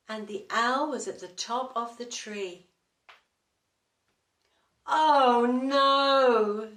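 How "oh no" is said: loud, fed-up "oh no"; loud weary bear complaint; exasperated bear groan. Acted. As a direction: groan it out, at the end of his tether. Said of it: "said Mister Bear".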